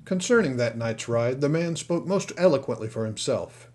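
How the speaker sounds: plain reading voice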